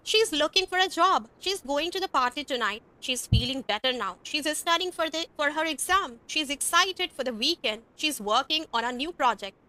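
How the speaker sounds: she's sentences said very slowly; slow, careful sentences to copy; slow model reading. Shown as a demonstration. Teacher reads she's sentences slowly for students to copy. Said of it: "हम इस तरह से बोलेंगे".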